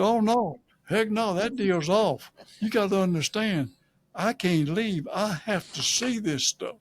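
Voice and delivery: pleading his case in a replayed argument; retold protest. Acting out his refusal to leave.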